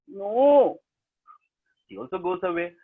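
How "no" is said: a higher, louder mock no. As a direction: cry no like a let-down boy. Disappointed brother cry.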